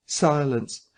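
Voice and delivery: usual speaking voice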